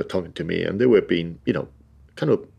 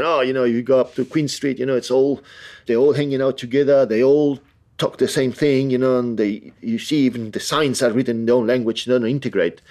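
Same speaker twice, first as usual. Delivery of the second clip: higher-pitched imitation of complaining locals; imitated grumbling locals; 5 semitones higher than usual. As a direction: retell their grumbling in a raised pitch. Retelling locals' anti-immigrant grumbling.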